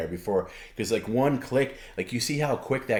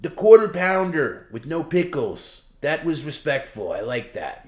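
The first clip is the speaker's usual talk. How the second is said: imitating Perry; 8 semitones higher, 7 dB louder than usual. Voicing Perry praising a burger order, higher and loud. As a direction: savor the order like a king.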